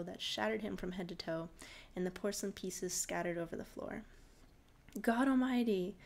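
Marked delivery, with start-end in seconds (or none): 5.0-6.0 loud horrified cry; cried out. Acted. Father after smashing the porcelain man, loud cry. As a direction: blurt it out in shock, louder. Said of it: "the man cried".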